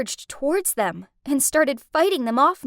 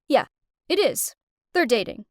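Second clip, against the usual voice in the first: calm. Acted. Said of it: "Will calmly said".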